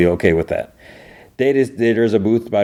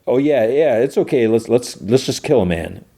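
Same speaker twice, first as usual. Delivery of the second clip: higher-pitched mock agreement, easing down; sarcastic mock agreement; 5 semitones higher than usual. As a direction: sarcastically play along with an absurd idea. Mocking a suggestion he finds ridiculous.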